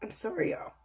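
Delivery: real tears starting to break through; fighting tears. Real, not acted. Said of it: "I'm trying not to cry".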